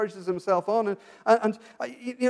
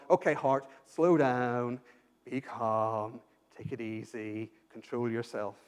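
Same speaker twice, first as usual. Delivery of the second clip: soothing self-talk; 7 semitones lower, slower than usual. Retold or imitated. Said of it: "David has gone".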